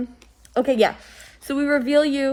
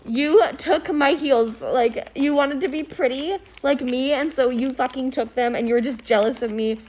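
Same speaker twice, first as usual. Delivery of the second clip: accusing; 3 semitones higher than usual. Acted. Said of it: "I'm gonna be like".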